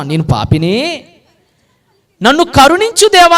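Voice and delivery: sinner asking God for mercy; humble plea. Acted. Tax collector's humble plea.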